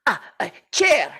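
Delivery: lightly put-on Russian accent; a deliberately bad Russian accent, only hinted at. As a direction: councillor interjecting in a faint mock Russian accent. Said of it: "bad Russian accents".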